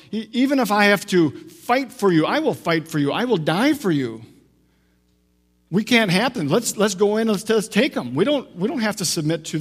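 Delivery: lightly voiced fervent objection; mild impassioned protest. Disciple protesting his rabbi's coming suffering, mildly impassioned.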